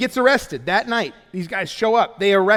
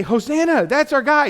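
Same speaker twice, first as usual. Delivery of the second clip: higher, louder cheer; cheering crowd; 8 semitones higher, 4 dB louder than usual. Retold or imitated. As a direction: cheer for your hero. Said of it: "And they say".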